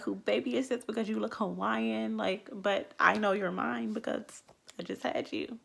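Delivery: put-on bright excited baby talk; playful delight. Parents tease their newborn about her looks, delighted.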